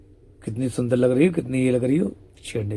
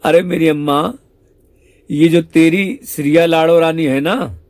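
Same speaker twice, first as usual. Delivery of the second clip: exasperated scolding; 2 semitones higher, 5 dB louder than usual. Acted. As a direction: lose patience, raised voice. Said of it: "Shyam सुंदर गुस्सा आ जाता है". (ऊँची, तेज़ आवाज़ में झुँझलाई डाँट)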